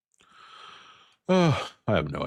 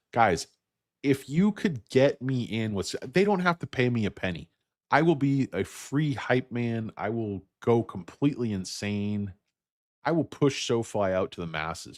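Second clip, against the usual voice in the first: pleading promo voice, pitched way up; hype man; 7 semitones higher than usual. Acted. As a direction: sell yourself like a hammed-up hype man.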